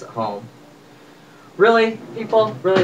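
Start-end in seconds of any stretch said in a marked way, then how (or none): 1.6-2.8 mock exasperation. Real, not acted.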